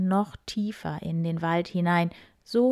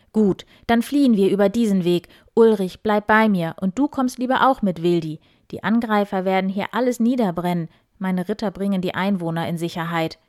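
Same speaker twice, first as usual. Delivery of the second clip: firm commands, louder; decisive call; 7 dB louder than usual. Acted. Count Eberhard orders his people to flee, firm and loud. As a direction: give orders firmly. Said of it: "rief Eberhard entschieden".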